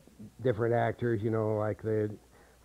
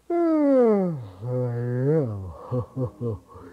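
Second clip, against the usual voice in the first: low breathy open sigh; 4 semitones lower than usual. Shown as a demonstration. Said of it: "the E low breathy open".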